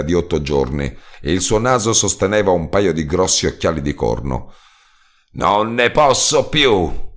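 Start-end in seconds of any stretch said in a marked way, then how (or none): 5.3-7.1 slow, higher exclamation; exclaiming. A narrator's reading. Hungover roadman exclaiming to the narrator, slow and worn out. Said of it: "esclamò di nuovo".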